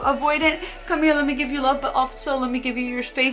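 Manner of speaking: lightly voiced cooing reassurance that settles back; doting secure partner. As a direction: play the patient partner welcoming everyone in. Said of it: "They're like".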